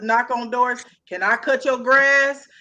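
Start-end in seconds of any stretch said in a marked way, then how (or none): 1.1-2.5 acted offer. Acted door-knocking offer.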